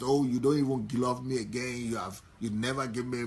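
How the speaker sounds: nagging reproach, pushed harder; accusing complaint. Retold or imitated. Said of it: "instead of accusing".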